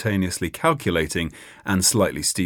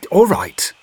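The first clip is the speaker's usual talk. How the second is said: loud outburst; 13 semitones higher, 9 dB louder than usual. Acted. Startled outburst at the whisper.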